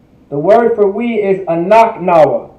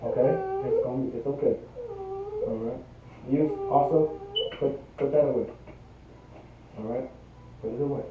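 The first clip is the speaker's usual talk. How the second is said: quiet aside; 6 semitones lower, 18 dB quieter, faster than usual. Real, not acted. Teacher quietly tells child aside.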